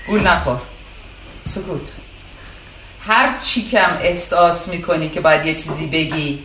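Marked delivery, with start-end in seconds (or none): 1.4-1.9 soft, hushed one-word order; hushing command. Real, not acted. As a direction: quietly call for silence. Orders the student into silence.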